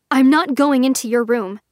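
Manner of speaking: forced edge. Acted. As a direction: push a hard edge into it. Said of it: "forcing an edge into her voice".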